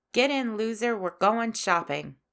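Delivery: put-on loud, brash mean-girl quote. Host quoting Mean Girls' famous line, mean-girl voice. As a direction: call it out like the movie's mean girl. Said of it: "in this negative mean girl voice".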